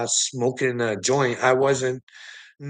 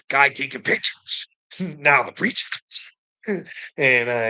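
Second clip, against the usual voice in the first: ordinary talk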